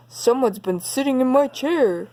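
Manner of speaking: a hint of a cross father bear; growled. Daddy Bear finds his chair used, mild mock growl. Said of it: "he growled".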